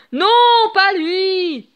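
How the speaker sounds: loud, high cry of dread; horrified. A narrator's reading. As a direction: recoil in horror. Hook sees the crocodile.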